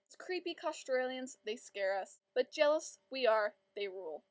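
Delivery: lively, sing-song poem recital; poem reading. Acted. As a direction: read the funny poem with bounce. Reciting her own poem.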